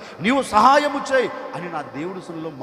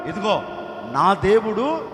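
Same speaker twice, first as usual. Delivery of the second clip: loud, higher preaching cry; fervent testimony; 4 semitones higher, 8 dB louder than usual. Acted. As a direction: proclaim it with full fervour. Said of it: "అతని నోట వచ్చే మాట".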